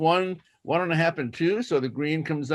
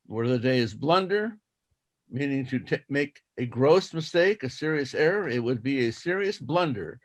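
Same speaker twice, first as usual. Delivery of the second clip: slow school dictation. Shown as a demonstration. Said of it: "I will read it twice".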